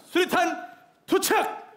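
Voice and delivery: high, slow drawn-out command; grenade warning yell. Acted. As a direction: call out the throw long and high. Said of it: "수류탄을 투척합니다".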